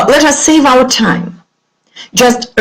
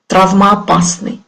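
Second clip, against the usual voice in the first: ordinary talk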